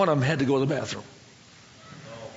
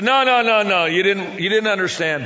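exasperated protest; 4 dB louder than usual. Retold or imitated. Preacher correcting five men who raised hands, loud protest. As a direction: cut them off in dismay.

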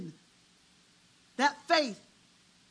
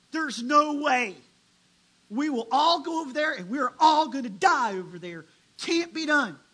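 fearful spies protesting; 6 dB louder than usual. Retold or imitated. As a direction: hammer home that it's hopeless. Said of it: "And ten men say".

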